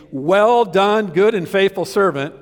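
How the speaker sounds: a hint of Jesus giving glad praise; Jesus praising. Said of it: "first words Jesus say be".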